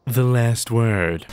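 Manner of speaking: "The last word." stretched out very slowly, ominous. Real, not acted. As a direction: let the name land like a verdict. Repeats the weapon name again.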